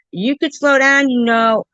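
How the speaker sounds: high-pitched retold protest; retold plea. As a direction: pipe up, as in the ride story. Retelling her plea to slow down.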